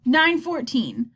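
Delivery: slow, drawn-out clock reading. Acted. Boy on the phone to Mom, stalling over the time, slow. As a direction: read the time off slowly, dreading it. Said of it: "I looked at the big clock on the wall".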